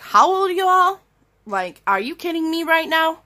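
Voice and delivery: retold telling-off. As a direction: let them have it, outraged. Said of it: "I just started going off".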